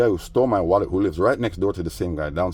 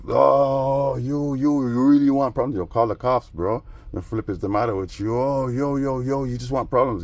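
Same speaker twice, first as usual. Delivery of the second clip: mock flustered neighbor; 5 semitones higher than usual. Imitating angry neighbor.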